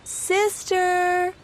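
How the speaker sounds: gentle soft call; softly. A narrator's reading. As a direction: call her name gently. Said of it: "called Mama softly".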